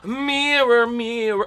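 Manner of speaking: high gasping amazement; breathless wonder; amazed. Real, not acted. Mirror forming.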